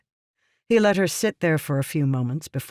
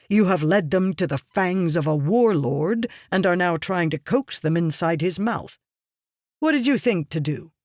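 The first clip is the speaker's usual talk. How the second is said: angry berating; 3 semitones higher than usual. Acted. Meridas to Yasna, accusing her of misleading the people, angry tirade. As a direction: lay into her, hard and cold.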